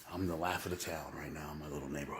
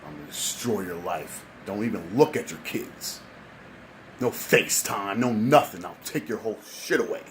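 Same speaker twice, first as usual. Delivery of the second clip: judge's threat growing louder; hammed-up judge getting louder; mock stern judge; 6 dB louder than usual. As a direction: threaten him, building to a loud warning. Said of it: "And he said".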